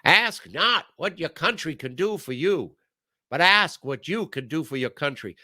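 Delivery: lightly voiced presidential oratory; a hint of the podium, pitch lifted; John F. Kennedy. Quoting a famous speech, lightly imitated orator. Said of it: "Even, even John F. Kennedy".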